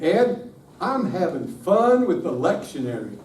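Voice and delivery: loose Texas drawl on "fun with the lectionary"; a hint of a Texas student; light Texas accent. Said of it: "in his Texas accent".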